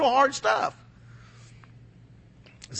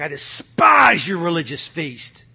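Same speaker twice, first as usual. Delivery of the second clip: God's voice; 5 semitones lower, slower than usual. Retold or imitated. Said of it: "He's like".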